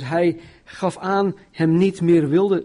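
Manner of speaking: usual speaking voice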